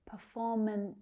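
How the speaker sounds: Performance with the last s set apart; final consonant. Shown as a demonstration. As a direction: separate the final hissed s in Performance. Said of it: "don't forget that last consonant sound".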